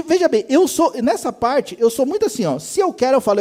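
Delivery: normal talking voice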